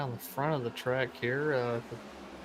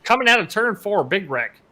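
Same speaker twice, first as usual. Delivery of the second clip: excited; 7 semitones higher, 9 dB louder than usual. Real, not acted. Calling out the crash.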